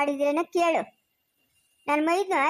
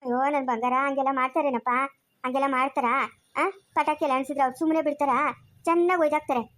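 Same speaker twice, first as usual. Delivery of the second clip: tender scolding; 4 semitones lower than usual. Acted. Grandma gently scolds grandson.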